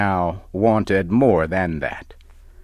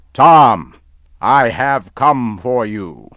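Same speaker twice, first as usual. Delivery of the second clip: loud and higher, calling out; booming call; 4 semitones higher, 9 dB louder than usual. Acted. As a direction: call out his name with menace. Giant comes for Tom.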